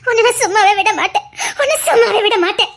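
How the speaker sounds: sobbing vow of revenge; tearful threat. Acted. Girl swears she won't spare Kadambari, tearful and angry. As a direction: swear it through tears.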